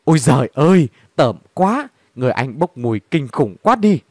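kêu to, giọng ghê tởm; la lên như ngửi thấy mùi tởm. Acted. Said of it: "rồi la lên". (cô gái điếm la lên vì mùi hôi, giọng kêu to ghê tởm)

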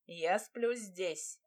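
slow, flat, word by word; curt cut-off. Acted. Demir refuses to leave, slowly and curtly. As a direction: cut her off, each word separate. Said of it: "отрезал нахал".

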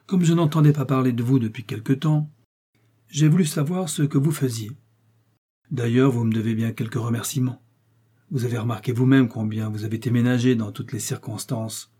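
the cardinal. Acted. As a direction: speak down to the young man as the cardinal. Narrator voices the cardinal.

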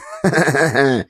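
big belly laugh of a fat man; hearty guffaw. Acted. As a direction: roar with laughter. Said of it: "захохотал толстый мужик".

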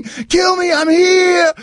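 high mock battle cry; hammed-up yell, half laughing. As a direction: shout it like a wannabe mob hero.

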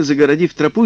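usual speaking voice

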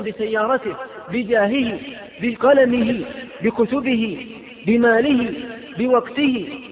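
stack the list with rising fervour; rising preacher's list; building emphasis. Real, not acted.

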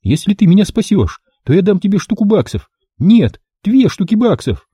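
high pleading female voice; desperate bargaining. A narrator's reading. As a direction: bargain for your life. Woman bargains in panic.

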